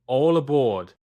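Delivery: loud cheerful "all aboard"; playful conductor's shout; excited call. Acted. Toy train departing, shouted.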